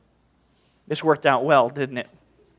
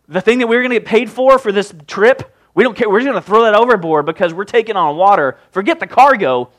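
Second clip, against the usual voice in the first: urgent, raised-voice sailor; mild panic, pitched up and pushed; desperate mariners; 4 semitones higher, 5 dB louder than usual. Acted. Mariners throwing cargo overboard in the storm, desperate.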